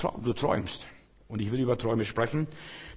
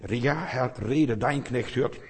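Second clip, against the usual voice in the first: calm consent; slower than usual. Acted. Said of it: "wir müssen zustimmen".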